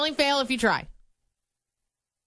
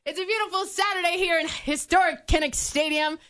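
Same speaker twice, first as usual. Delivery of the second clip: announcer voice; 2 semitones higher than usual. Pretend. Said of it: "announcer voice".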